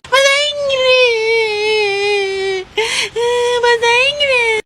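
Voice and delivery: tearful whimpering insistence; crying. Acted. Kid insisting it's English, crying. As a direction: sob the words out like a hurt kid. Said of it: "kok kalian pada nangis sih".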